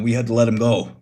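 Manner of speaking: offhand Tony voice, a touch different; lightly voiced Tony. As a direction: say it as Tony, matter-of-fact. Tony explains Miguel's firing.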